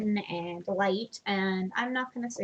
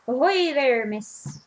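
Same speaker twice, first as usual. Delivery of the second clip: bad sailor voice; 3 semitones higher, slower than usual. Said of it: "Oh, that's so bad".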